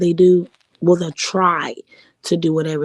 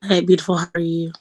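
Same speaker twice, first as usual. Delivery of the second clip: sultry voice; faster than usual. Real, not acted. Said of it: "I need a sultry voice like that".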